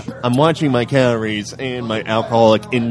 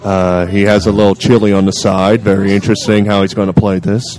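lightly voiced golf commentary, a bit lower; a hint of solemn golf announcer; golf commentator; 3 semitones lower than usual. Analysing the contestant's next shot, mock golf commentator. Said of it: "trying to lower my voice".

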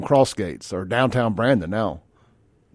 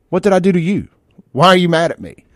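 higher-pitched mock-hurt questioning; imitated offended protest; 5 semitones higher, 4 dB louder than usual. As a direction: play the wronged texter, lightly. Imitating an offended text recipient.

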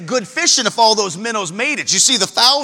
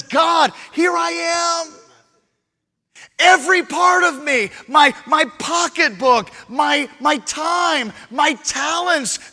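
full-force preaching; 4 semitones higher than usual. Acted. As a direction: cry it out to God. Believer's surrender prayer, preaching full force.

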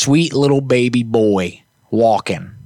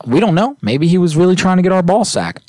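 playful high joking; 9 semitones higher than usual. Acted. Joking to his cohost about the dog's intent, mock wonder. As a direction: tease the idea with a grin.

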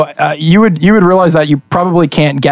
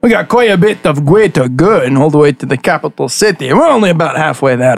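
lightly voiced friendly host; 3 semitones higher than usual. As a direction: chattily invite a traveler to sit and drink. Game master voices host offering drink.

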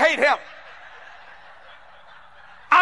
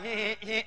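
little sly he-he-he, softer; mimicked smirking snicker; 4 semitones lower, 13 dB quieter than usual. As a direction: imitate a smug little chuckle, low. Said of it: "had a little smirk ... kinda like".

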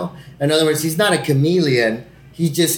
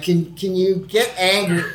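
laughing mockery of director; 7 semitones higher, slower than usual. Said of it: "that's literally what they want".

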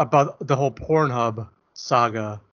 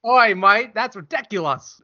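put-on higher, louder jokey Australian accent; mock Australian accent; 8 semitones higher, 5 dB louder than usual. Teasing his cohost in a hammed-up Australian accent. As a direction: ham up an Aussie bloke. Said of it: "flawless Australian accent".

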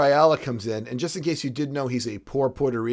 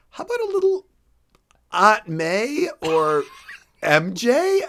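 mock pleading; 7 semitones higher, 4 dB louder than usual. Mocking suggestion of love interest.

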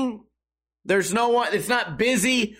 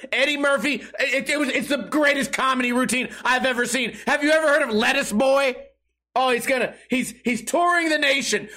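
higher-pitched, overblown mock admiration; sarcastic raving; 3 semitones higher than usual. Annoyed customer praising lettuce boy's routine, sarcastic raving. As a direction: gush as if it were comedy history.

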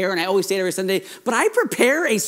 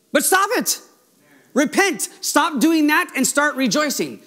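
stern exhortation; 5 semitones higher than usual. Acted. Preacher voices Nehemiah's rebuke to weepers.

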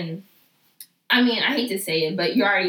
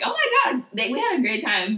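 mock gushing coworker; 5 semitones higher, 4 dB louder than usual. Coworkers gushing after night out.

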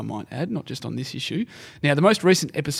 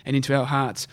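north korean newsreader. Retold or imitated. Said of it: "went like this".

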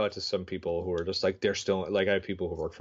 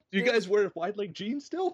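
mock old-timer; 12 semitones higher than usual. Plays an out-of-touch older guy.

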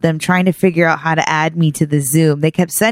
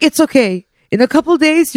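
imitating dad; 7 semitones higher than usual. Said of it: "He's like".

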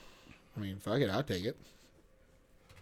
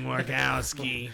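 slow drawn-out creepy slug; very slow slimy snail voice; 3 semitones lower, 5 dB quieter, much slower than usual. Retold or imitated. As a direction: drag every word out, slimy and slow. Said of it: "slug from Monsters, Inc".

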